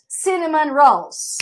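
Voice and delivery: slow, careful English; slow model pronunciation. Shown as a demonstration. Teacher repeating cinnamon rolls for students.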